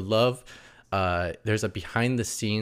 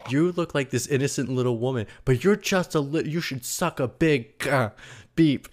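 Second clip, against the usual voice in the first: mock Ryan; 6 semitones higher than usual. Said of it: "then he goes".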